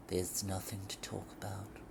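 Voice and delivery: low, soft, toneless murmur; flatly. Acted. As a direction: say it flat, no feeling. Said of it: "he said flatly".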